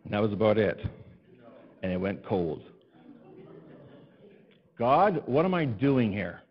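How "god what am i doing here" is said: slow, drawn-out sigh to God; weary plea. Retold or imitated. Pastor sighing to God after the shower goes cold. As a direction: let the cold water defeat you.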